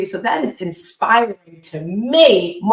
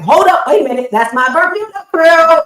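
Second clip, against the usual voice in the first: louder, higher call of surprised delight; excited shout of recognition; 8 semitones higher, 7 dB louder than usual. Retold or imitated. Coach hears a Bermudan accent, calls out excitedly. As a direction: blurt it out like you just heard home. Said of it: "I'm like".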